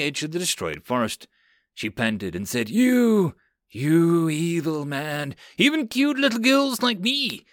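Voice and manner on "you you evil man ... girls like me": put-on high, girlish cute voice with a slow accusing drag; a little girl pouting at a bully; cute girl mage. Cute girl mage scolds Hitsu.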